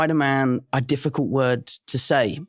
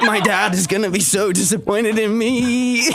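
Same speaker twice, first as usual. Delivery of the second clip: high, slow, laughing wail; laughing mock lament; 6 semitones higher, slower than usual. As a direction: draw it out through laughter. Mock lament over dropped manners.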